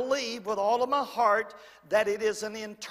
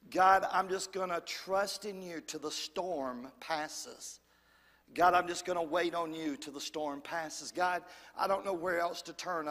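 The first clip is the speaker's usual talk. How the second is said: low, soft, weary plea to God; hushed prayer; 6 semitones lower, 5 dB quieter than usual. Acted. Preacher voices a believer trusting God through the storm, hushed prayer. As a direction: pray it low and softly, surrendering.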